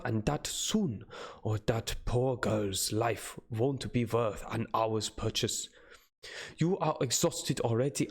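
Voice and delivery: lightly voiced anxious old professor; hammy dramatic reading. Reads Van Helsing's anxious speech.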